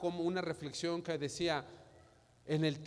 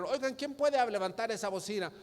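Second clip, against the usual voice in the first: high, raised-voice challenge to onlookers; shouted dare; 5 semitones higher than usual. Acted. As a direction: call out a challenge, acted. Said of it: "Es como un reto".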